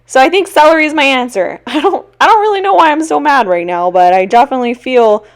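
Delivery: playfully worked up over celery; getting mad. Real, not acted. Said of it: "I'm kinda getting mad about it".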